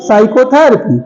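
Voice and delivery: psychotherapy starting on an S sound; correct pronunciation. Shown as a demonstration. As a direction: say psychotherapy as "saiko-therapy". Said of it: "T is silent".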